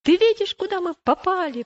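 high, loud accusing outburst; angry. A narrator's reading. Pliable to Christian as they sink in the bog, angrily. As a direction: round on your companion in indignation. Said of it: "Уступчивый сильно рассердился".

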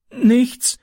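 high, frightened little whimper; a hint of a whimpering boy. A narrator's reading. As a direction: squeak it out in fear. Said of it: "wimmerte Francis".

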